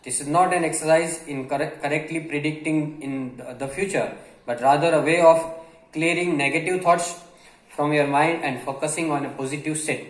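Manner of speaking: reads the English line very slowly, word by word; slow dictation reading. Acted. Teacher reading a passage slowly to Gujarati learners. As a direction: spell it out slowly for the students.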